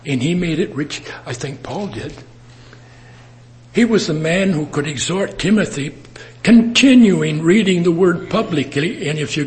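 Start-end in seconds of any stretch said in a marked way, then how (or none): 3.7-9.1 rising to a loud, higher proclamation; louder and higher as the sermon peaks; preaching crescendo. Real, not acted. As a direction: build it up and preach it out. Preaching builds to a climax.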